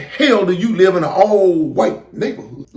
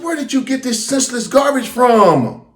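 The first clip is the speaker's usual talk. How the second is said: retold shout; 4 semitones higher than usual. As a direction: bark it out like a fed-up father. Dad yelling at son on phone.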